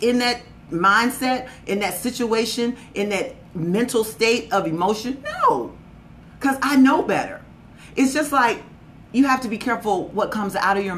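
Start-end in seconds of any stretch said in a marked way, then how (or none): 5.2-5.7 emphatic no. Real, not acted. Rejecting a defeatist mindset.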